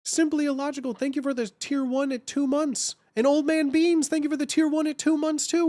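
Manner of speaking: high-pitched hyped thank you; excited thanks. Real, not acted. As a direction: thank them with a high, bright voice.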